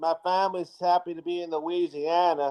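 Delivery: put-on, fake Southern accent. Co-host imitates a man newly arrived in Baton Rouge trying to fit in, in a fake Southern accent. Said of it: "he pulled up that fake Southern accent".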